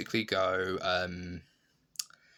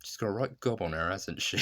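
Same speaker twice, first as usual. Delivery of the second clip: mock blurt. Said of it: "he just goes".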